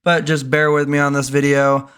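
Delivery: slightly hoarse everyday voice; hoarse from sickness. Real, not acted. Vlogger getting over a sickness, mildly hoarse. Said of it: "why my voice sounds real hoarse".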